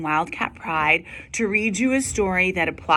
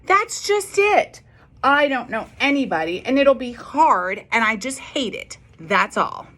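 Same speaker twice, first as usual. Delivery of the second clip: put-on upset child; 5 semitones higher than usual.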